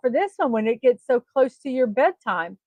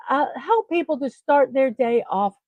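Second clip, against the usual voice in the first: talking through hiccups; hiccuping between words. Real, not acted. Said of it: "I got the hiccups".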